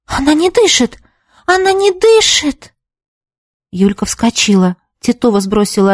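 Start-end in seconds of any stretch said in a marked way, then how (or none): 0.1-1.0 high alarmed cry of fear; she's terrified her friend has died; first alarm, higher, stress on не; frightened cry. A narrator's reading. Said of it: "в ужасе уставилась". 1.4-2.7 much higher, slower cry of panic; the fear builds on the repeat; panicked cry. A narrator's reading. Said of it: "в ужасе уставилась".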